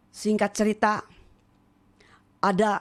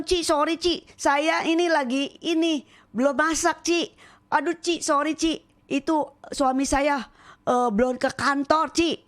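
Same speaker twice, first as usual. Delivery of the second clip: higher, apologetic mimicry of the mothers; mimicked excuses; 4 semitones higher than usual. Retelling the mothers' excuses to her husband, mock apologetic. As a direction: brush her off politely but fast. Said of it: "Mereka bilang".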